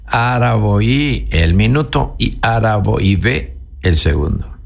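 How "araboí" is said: slow teaching demo. Shown as a demonstration. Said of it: "vamos a hacer un poquito más largo".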